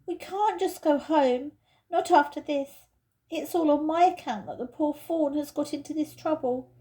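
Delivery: lightly voiced girl, insistent; earnest young girl. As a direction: press the others to help. Lucy pleads to save fawn.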